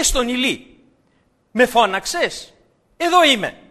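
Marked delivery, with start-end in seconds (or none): 1.5-3.6 ask, then announce yourself keenly; eager question. Retold or imitated. Samuel back at the priest's bed, eager and loud. Samuel running to Eli again.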